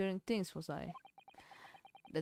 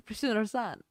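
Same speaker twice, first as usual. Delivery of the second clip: amused repeat; 3 semitones higher than usual. Real, not acted.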